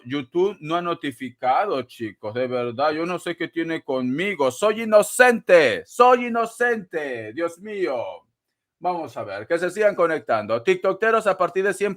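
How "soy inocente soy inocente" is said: slow, drawn-out pleading; playful whiny plea; mock innocence. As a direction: protest your innocence theatrically.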